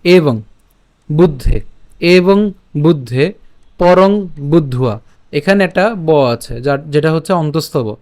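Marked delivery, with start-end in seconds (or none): 0.0-5.0 slow word-by-word Sanskrit demonstration; measured, deliberate verse reading; teaching recitation. Shown as a demonstration. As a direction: draw out each word for learners to follow. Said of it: "একটু প্রথম দিকে খেয়াল করি".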